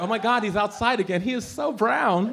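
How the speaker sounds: mock gushing neighbor. Neighbor gushing over him stepping outside, mock swoon.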